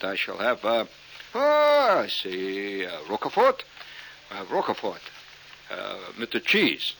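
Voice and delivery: lightly hammed French accent; mock French accent. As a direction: pick it hesitantly in fake French. Ordering dressing in mock French.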